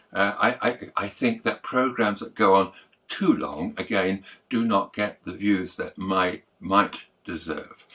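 faltering, repeated words; stumbling, tired voice; stumbling over words. Real, not acted. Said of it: "I'm stumbling, I'm mumbling my words".

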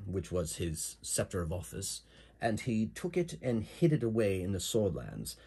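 lightly voiced British storyteller; slight British accent, telling a legend; Mirandol's British accent. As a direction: recount old history with a hint of English accent. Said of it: "So she has a British accent".

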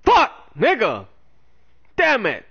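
raging gamer. Real, not acted. Raging after bad play.

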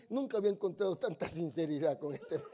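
said through a chuckle; amused, half-laughing. Retold or imitated. Policeman walking away laughing at the honest driver. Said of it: "se volvió para atrás riéndose".

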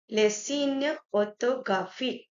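les signes as "lay seen-yuh"; les signes orthographiques, carefully in French; French term. Shown as a demonstration. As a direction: say orthographiques as "orto-grafeek". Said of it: "this word is".

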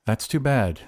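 mildly indifferent; a touch of indifference. Acted. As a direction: answer as if it hardly matters. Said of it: "declared the glassblower indifferently".

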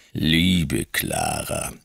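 a hint of a stern stepfather; stern man's voice. Stepfather soothes the mother.

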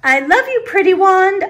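high, gushing fondness; doting. A narrator's reading. Girl doting on her new wand, adoring.

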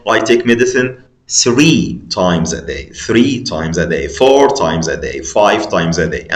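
three, four, five times a day, each one slow; slow drill. Shown as a demonstration. Teacher drilling sixth graders on the pattern, slow chant. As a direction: chant the list slowly for the class. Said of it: "طب لو ثلاث مرات".

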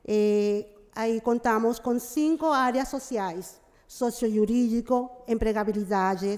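Portuguese mixed with Spanish; portunhol. Real, not acted. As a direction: speak in Spanish-tinged portunhol. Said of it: "Eu vou falar um pouco em portunhol".

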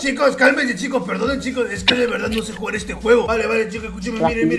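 lightly put-on grandpa voice; trolling as a frail old grandpa; very old man. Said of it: "haciendo la puta voz de viejo".

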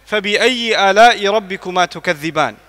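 swift melodic Quranic recitation; fast chanted Arabic verse. Acted. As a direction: recite it in rapid tajweed flow. Recites the refrain.

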